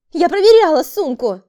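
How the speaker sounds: shrieking woman. A narrator's reading. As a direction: scream in defence. Woman screams defence. (визгливый крик)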